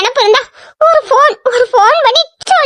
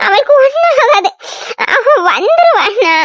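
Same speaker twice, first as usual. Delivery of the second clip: tearful reassurance. Acted. Sister tearfully tells her brother Radha will come back, crying. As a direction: choke back tears while reassuring.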